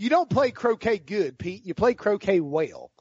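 put-on drawn-out Raleigh Southern accent; teasing correction in a Raleigh twang. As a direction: lay on a slow Raleigh accent. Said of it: "your, uh, Raleigh accent on that one".

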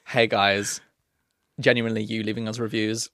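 put-on genuineness; authentic voice. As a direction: drop into a sincere podcast-host voice. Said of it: "We're doing authentic voice".

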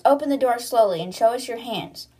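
mild mock shout; imitated guard calling out; retold shout. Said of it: "one of them shouts".

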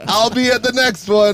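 keen fan. Retold or imitated. Fan promising to attend the next show, mock eager. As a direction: imitate an eager fan, drawn out. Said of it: "And he's like".

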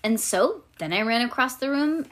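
put-on animated, childlike first-person storytelling; reading to children. A narrator's reading. Reading a chapter book to a child, animated storytelling. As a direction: read it aloud like a little girl telling her tale.

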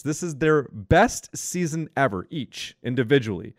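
words pushed out through a burp. Real, not acted. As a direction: talk right through a burp. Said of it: "that's a big old burp right there".

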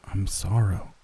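talking through a mouthful; words mumbled round food; mouth full. Acted. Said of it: "I tried to talk with my mouth full".

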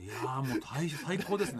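imitated gushing, rising with a laugh; enthusiastic reply. Co-star answering the grumbler that it's great, imitated enthusiasm. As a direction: gush it as a retold reply.

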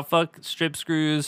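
slow, punched "Fuck"; slow grudging curse; emphatic curse. Real, not acted. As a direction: spit "Fuck strip screws" deliberately. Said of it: "slow emphatic curse".

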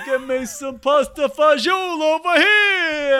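shouted Italian-American deli-counter voice; Italian-American accent. Acted. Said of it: "She's doing accents".

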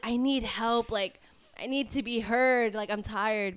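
mock desperate plea. Pleading to counselor retold.

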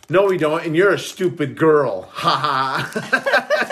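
put-on childish taunt. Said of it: "Like what you would say in middle school".

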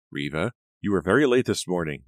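a loud, firm scold. Acted. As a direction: boss scolds a late employee. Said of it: "Miss Smith scolded".

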